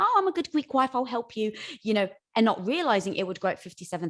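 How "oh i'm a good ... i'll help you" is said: dutiful wife. Retold or imitated. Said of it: "like my husband".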